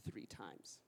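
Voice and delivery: "three times" dropped to a whisper; whispered ending. Acted. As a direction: breathe "three times" out as a grave secret. Jesus' warning ends in whisper.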